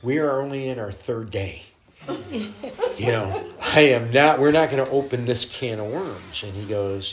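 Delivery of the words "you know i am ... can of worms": laugh-tinged, a bit louder; laughing protest. Real, not acted. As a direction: protest through giggles. Laughing at the awkward prophecy.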